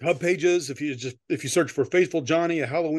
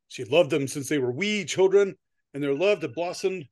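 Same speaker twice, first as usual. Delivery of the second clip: measured storyteller with lifted sentence openings; story narration; 2 semitones higher than usual. Acted. Author reading a Halloween story to co-host, storyteller's narration. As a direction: read it out to an audience, stressing key words.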